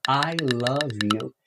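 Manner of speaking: "I love you" said slowly, "I" as "ai"; slow example. Shown as a demonstration. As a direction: say it slow and clear. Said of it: "Por isso que a gente fala". (exemplo dito devagar)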